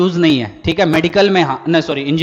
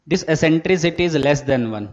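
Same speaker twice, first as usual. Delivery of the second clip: slow dictation; much slower than usual. Shown as a demonstration. Teacher dictating a rule.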